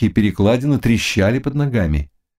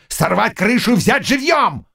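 high furious order; shouted command; 11 semitones higher than usual. Acted. Bogun commanding.

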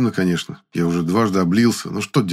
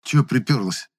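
mildly surly, higher-pitched question; angry grumble; 4 semitones higher than usual. A narrator's reading. Beaten boy to woman who came down, surly. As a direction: grunt it with some spite. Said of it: "Зло буркнул я".

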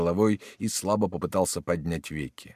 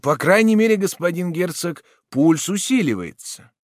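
doctor's voice; 10 semitones higher, 7 dB louder than usual. A narrator's reading.

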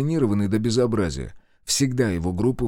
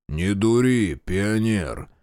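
rumbling guard; much slower than usual. Acted. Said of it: "пророкотал сторож".

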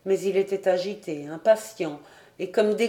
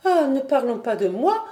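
higher-pitched, urgent protest; earnest exclamation; 6 semitones higher, 4 dB louder than usual. A narrator's reading. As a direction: brush aside concern for yourself. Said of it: "s'écria Diane". (exclamation vive)

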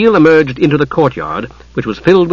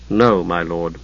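steady; 7 semitones lower, 5 dB quieter, slower than usual. A narrator's reading. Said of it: "Steele answered steadily".

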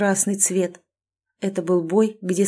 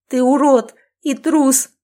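slow, loud, higher insult; angry insult; 5 semitones higher, 6 dB louder than usual. Acted. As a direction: spit it at him. Heroine insults captor. (гневное оскорбление)

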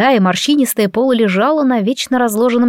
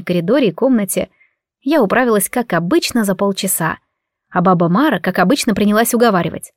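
ordinary delivery

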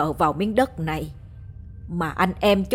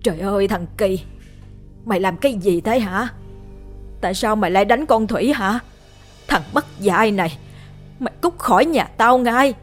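horrified shouting; 3 semitones higher than usual. Acted. Mother yells at son who struck her daughter, rising to a shout. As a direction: scream at the son to get out. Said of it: "Bà Hậu thấy thế hét lên".

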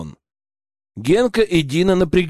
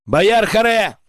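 shouted; 6 semitones higher, slower than usual. A narrator's reading. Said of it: "вторил я ему".

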